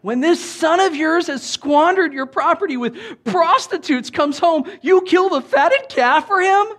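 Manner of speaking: high, loud whiny grown son; petulant young adult. Acted. Older brother complaining to his father, high, loud and petulant. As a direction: whine it like a sulky grown son. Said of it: "petulant young adult".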